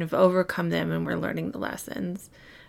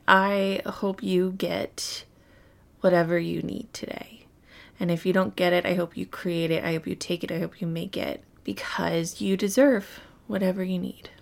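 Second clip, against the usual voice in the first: tender and sincere. Real, not acted. Heartfelt blessing to the listener.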